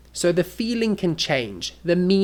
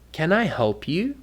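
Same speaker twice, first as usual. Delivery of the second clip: softer, gently rising offer; polite; 3 dB quieter than usual. Shown as a demonstration. Offering to help somebody, gentle and polite. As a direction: ask it courteously. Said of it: "If you say it wrong".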